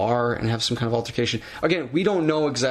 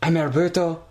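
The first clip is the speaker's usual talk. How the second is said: high, halting grand self-introduction; Del Rio impression; 5 semitones higher than usual. Host as Del Rio introducing himself, hammed-up. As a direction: announce the name like a showy wrestler. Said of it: "Do you wanna be A D R".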